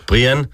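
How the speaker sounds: "Brian" first as Bree-en, then Bry-an; name slip corrected. Real, not acted. Interviewer interrupting the guest, "Brian" slipping from Bree-en to Bry-an.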